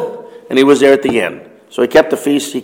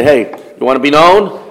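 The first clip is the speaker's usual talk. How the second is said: mildly teasing dare; mocking; 2 semitones higher than usual. Brothers mockingly daring Jesus to go openly, light mock. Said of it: "kind of mockingly say".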